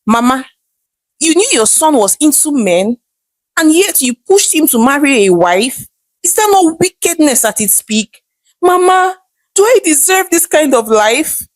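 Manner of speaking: a wife appalled at her mother-in-law; shocked and crying. Acted. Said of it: "shocked and crying".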